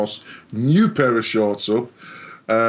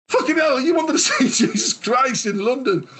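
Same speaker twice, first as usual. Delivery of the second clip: exasperated shout. Retold or imitated. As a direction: blast it back at her in disbelief. Exasperated retort to partner.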